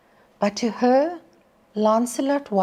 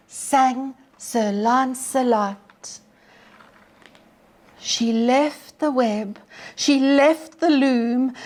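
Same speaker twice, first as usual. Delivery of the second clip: storyteller's poem voice; poem recitation. Acted. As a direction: read it like a ballad to the class. Teacher recites Tennyson poem to class.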